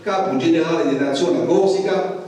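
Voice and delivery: Capo generale della nazione Corsica spoken with native Corsican pronunciation; title spoken in Corsican, not French. Shown as a demonstration. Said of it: "je vais le dire avec l'accent".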